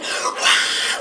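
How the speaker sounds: unvoiced mock cheer; holding back the last scream as a whisper. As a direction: scream without voice. Quiet scream after being told stop.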